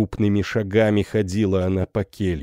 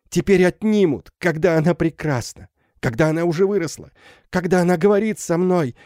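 frantic mother; 7 semitones higher than usual. Acted. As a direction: refuse to lose her child again. (исступлённая мать, высоко и громко)

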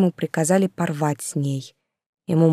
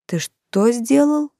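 higher, slow, stunned disbelief; 6 semitones higher, much slower than usual. Acted. Yulka, stunned, asks Anvar what he did. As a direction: ask it slowly as if you misheard. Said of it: "ошарашенно переспросила".

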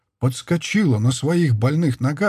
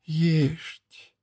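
moaned; 4 semitones higher, 4 dB quieter than usual. A narrator's reading. Mother-in-law hearing the truth, a soft moan. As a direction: moan the word in despair. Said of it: "простонала Семёновна".

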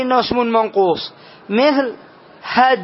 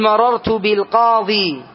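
slow example; slower than usual. Shown as a demonstration. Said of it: "تقول".

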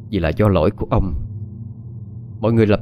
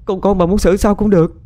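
desperate begging; 10 semitones higher than usual. Acted. Maid clinging to the mistress's legs, begging for mercy in a high tearful voice. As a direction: beg for your family's lives, voice climbing and breaking. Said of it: "ôm lấy chân của bà Liễu rồi van xin".

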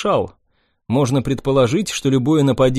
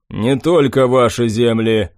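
gloomy; 2 semitones lower, 3 dB louder than usual. Acted. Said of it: "хмуро произнёс".

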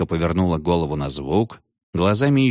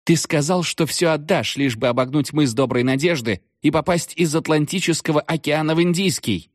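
much higher, ceremonial witch voice; solemn witch; 9 semitones higher than usual. A narrator's reading. Magda reminding the captain of his bargain, solemnly. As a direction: pronounce it like a solemn verdict. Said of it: "торжественно произнесла Магда".

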